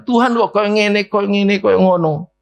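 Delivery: high, slow mock whine; a church member complaining to God; whiny complaint. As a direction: grumble at God in a drawn-out high voice. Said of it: "kita nyalakan".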